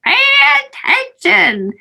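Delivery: lightly voiced insistent granny; granny's command. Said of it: "So my granny that said".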